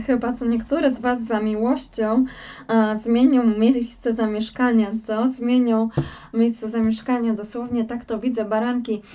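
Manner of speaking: normal talking voice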